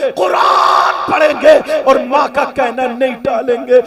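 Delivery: full-force preacher's call; fiery sermon. Acted. Preacher exhorts girls at full force.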